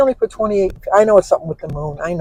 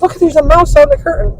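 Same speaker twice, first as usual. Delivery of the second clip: put-on child's voice; 9 semitones higher than usual. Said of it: "Danny says".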